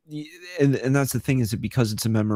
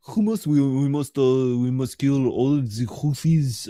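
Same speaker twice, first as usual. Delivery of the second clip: mock Israeli accent. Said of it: "a Israeli accent is so funny".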